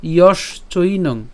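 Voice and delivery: slow careful ইয়শ চৈনং; split syllables. Shown as a demonstration. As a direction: stress ইয়শ, pause, then চৈনং. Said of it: "তালব্য শ পর্যন্ত উচ্চারণ করছি".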